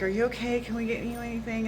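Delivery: light imitation of worried staff; concerned office staff. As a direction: gently imitate someone checking on her. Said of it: "they're like".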